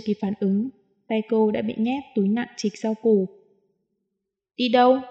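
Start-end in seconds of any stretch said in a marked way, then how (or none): 4.5-5.0 sharp, louder wary question; suspicious, guard up. Acted. Woman wary of where he is taking her, sharp question. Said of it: "tỏ ra cảnh giác".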